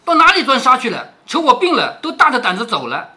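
sharp scolding of a maid. Acted. Qingwen scolding the absent maid, angry. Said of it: "晴雯又骂着小丫头".

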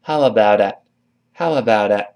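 "How about it" with a linked "a"; linked model. Shown as a demonstration. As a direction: run "about" into "a" smoothly. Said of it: "再跟a连在一块儿". (连读示范)

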